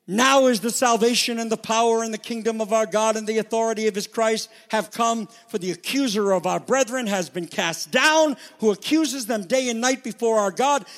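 high, sustained scripture proclamation; loud voice. Acted. Preacher reading heaven's announcement of salvation, loud voice. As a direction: declare it boldly as a voice from heaven. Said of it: "I heard a loud voice in heaven saying".

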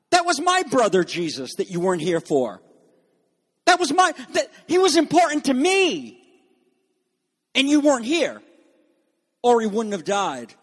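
high, aggrieved protest with pauses between phrases; deep resentment. Acted. Mary reproaches Jesus for not being there for her brother, resentful. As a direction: voice rises sharply in hurt reproach, then eases down. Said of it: "expressing a deep resentment".

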